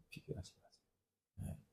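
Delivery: 비교하지 마세요 breathed in a whisper; a whispered echo of the advice; whispered repeat. Shown as a demonstration. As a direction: lean in and whisper it. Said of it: "repeated advice, whispered".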